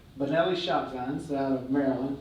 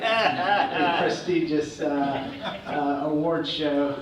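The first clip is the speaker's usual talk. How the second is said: mock grandeur; much slower than usual. Real, not acted. Ironic slow emphasis.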